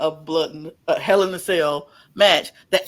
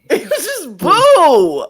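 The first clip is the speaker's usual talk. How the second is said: laughing; 9 semitones higher, 10 dB louder, slower than usual. Real, not acted. Laughing disbelief at the booing.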